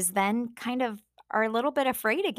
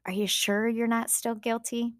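a lightly voiced, higher, taunting Satan; a hint of the accuser whispering doubts; 3 semitones higher than usual. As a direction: sow doubt in a sly, needling voice. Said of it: "Satan keeps bringing back up".

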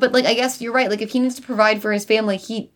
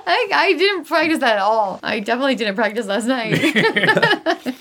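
laughing; 3 semitones higher than usual. Real, not acted. Giggling over her own bit.

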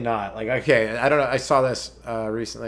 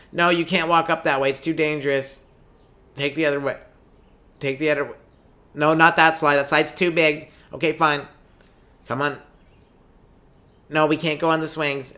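nagging mom; 3 semitones higher than usual. Acted.

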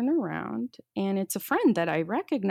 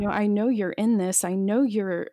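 louder pleading cry to God; pleading prayer; 4 dB louder than usual. Retold or imitated. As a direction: beg God for help out loud. Retold desperate prayer.

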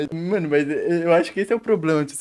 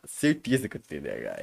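Certeza said much lower and quieter; low emphatic repeat; 12 semitones lower, 5 dB quieter than usual. Real, not acted. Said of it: "Eu tenho certeza que eu tenho T D A H".

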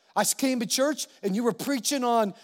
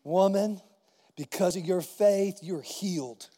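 calm, not upset; 3 semitones lower, slower than usual. Acted. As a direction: play a calm, reassuring pronouncement. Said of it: "He wasn't upset".

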